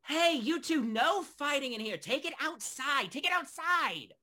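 high-pitched shout across the tavern; barkeep shouting out. Acted. Barkeep orders two brawlers out, shouting high. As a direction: yell at the brawlers to break it up. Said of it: "Sanctuary sort of shouts out".

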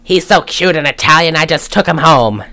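put-on drunken Mid-Atlantic slur. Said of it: "slurring her words with that accent".

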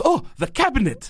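high-pitched mock eureka moment; light, laughing burst of getting it; sudden realization. Host imitating the housekeeper getting the quiz answer, sudden realization.

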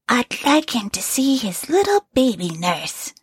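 high, tender quoted wife; the woman voicing the dead wife, high and tender. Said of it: "she says".

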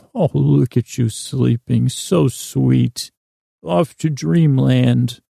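a light, fond grandmotherly coo over a sleeper; like a grandmother tucking in a sleeping child; understated tender goodnight; grandmotherly tenderness. Pretend. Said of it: "in that grandmotherly way".

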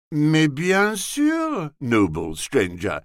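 drawn-out, cheery French greeting; a light, gracious Gallic welcome; lightly cheerful polite reply; cheerily. Acted. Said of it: "he said cheerily".

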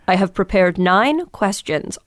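slow, measured parody of an over-prepared interviewer; stiff interviewer. Retold or imitated. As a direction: read it out stiffly, word by word. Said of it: "My first interviews were like".

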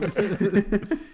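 high, loud burst of laughter. Real, not acted. Co-host laughs out loud at the hairy-man joke, a high loud burst of laughter.

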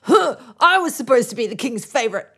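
jealous rival, rising to outrage; sulky courtier, then indignant; indignant whine. Retold or imitated. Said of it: "Is he just like".

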